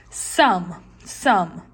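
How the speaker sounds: "Some" said as one beat; one mouth opening on "Some"; syllable demo. Shown as a demonstration. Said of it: "two vowels".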